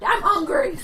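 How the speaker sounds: high, loud mock scream; imitated scream. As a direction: yell it out like a hammy catchphrase. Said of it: "and they just screamed".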